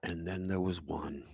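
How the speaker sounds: soft unvoiced whisper. Real, not acted. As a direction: breathe it out as a whisper. Whispered aside.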